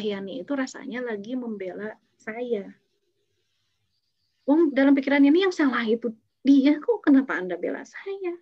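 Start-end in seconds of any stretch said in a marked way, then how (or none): 4.4-8.4 raised, louder, offended protest; she's sure she's right and feels betrayed; indignant. Retold or imitated. Yani fuming at the colleague who defends Bu Dewi, higher and louder.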